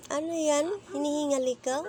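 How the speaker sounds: sudden surprise at the panting; surprised high question. Real, not acted. Asking the panting pet what's wrong, surprised and high.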